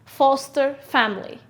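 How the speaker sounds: teacher modelling Foster family; model phrase. Shown as a demonstration. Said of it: "Repeat after me".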